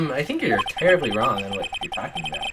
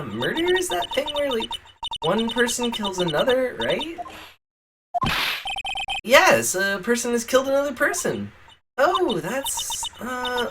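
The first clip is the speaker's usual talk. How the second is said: put-on high, airy Valley Girl; 10 semitones higher than usual. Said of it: "Valley Girl voice".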